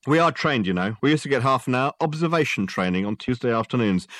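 a copper showing he's not stupid; smug sergeant. Acted. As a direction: sergeant dryly correcting a clever detective. Gilks lecturing Dirk.

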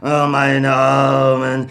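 sorrowful, can do nothing; helpless old God. Acted. God apologises to Beckmann, slow and grieving.

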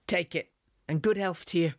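a hearty cheerful farewell to the buyer. Acted. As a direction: hand it over cheerfully. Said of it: "said the woman cheerfully".

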